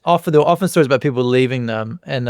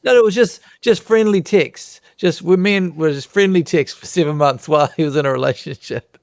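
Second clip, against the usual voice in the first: mock an embarrassed man insisting the texts were innocent; defensive audience guy; 5 semitones higher than usual. A lightly voiced audience member defending his texts. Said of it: "And then he's like".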